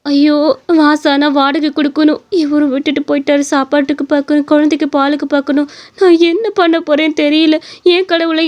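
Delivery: lightly voiced, worried lament; despairing wife. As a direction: fret aloud as an abandoned mother. Abandoned wife laments alone. (கவலையில் புலம்பும் மனைவி)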